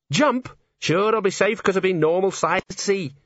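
high, disbelieving outburst; can't believe what he hears; man hanging on hears the gnome will jump, disbelieving; incredulous. A narrator's reading.

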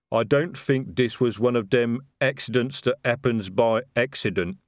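slow, heavy-tongued troll sergeant. Acted. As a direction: drag it out like a plodding troll. Troll sergeant voiced by narrator.

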